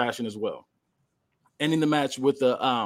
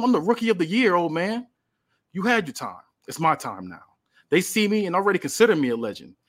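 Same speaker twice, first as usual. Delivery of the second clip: cocky trash talk; 5 semitones higher than usual. Acted. Melo's trash-talk promo.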